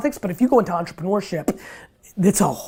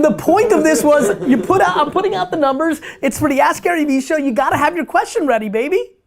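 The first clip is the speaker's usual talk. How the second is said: amused excitement; 7 semitones higher than usual. Real, not acted. Host teasing an unprepared caller, laughing and excited. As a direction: tease him, half laughing, full of energy.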